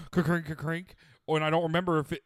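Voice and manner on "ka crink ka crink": crunchy mechanical cranking noise; two quick mock crank sounds; imitated paper towel dispenser. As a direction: mimic a towel lever being cranked. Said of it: "paper towel thing go".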